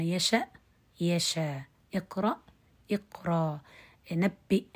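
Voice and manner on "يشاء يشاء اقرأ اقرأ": يشاء and اقرأ said with the final hamza made a long vowel; teacher modelling the changed hamza. Shown as a demonstration. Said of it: "كما قلنا".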